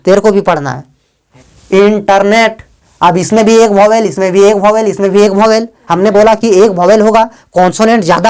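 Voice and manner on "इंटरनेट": "इंटरनेट" split as in-ter-net; "इंटरनेट" measured out in three parts; broken into syllables. Shown as a demonstration. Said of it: "अक्षरों के समूह में तोड़ा".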